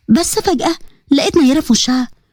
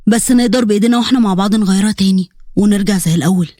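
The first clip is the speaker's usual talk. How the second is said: lower-pitched male figure, gently persuading; lightly voiced old friend coaxing her; coaxing young man; 6 semitones lower than usual. Hamza reminding Sagda of their old friendship, coaxing.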